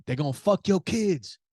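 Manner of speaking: high-pitched imitation of a ranting man; mock yelling. Subway ranter yelling at the train car, mock yell. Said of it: "he starts yelling".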